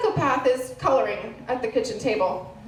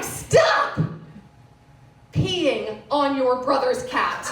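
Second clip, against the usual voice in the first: sharp, loud "stop", then slowed scolding; exasperated parent telling off a child; 4 dB louder, much slower than usual. Retold or imitated. Parent scolds son in story.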